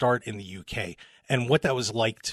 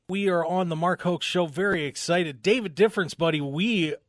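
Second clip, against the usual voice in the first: higher-pitched radio host intro; upbeat announcer welcome, pitched up; show intro; 5 semitones higher than usual. Real, not acted. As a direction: roll out the show opener.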